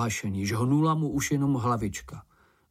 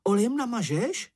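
much higher, amazed little creature voice; Sniff, goggle-eyed; 11 semitones higher than usual. A narrator's reading. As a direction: ask it with eyes popping. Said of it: "s očima na šťopkách".

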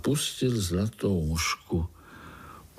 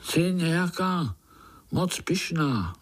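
mildly cross; 7 semitones higher than usual. A narrator's reading. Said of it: "nahněval se Pája".

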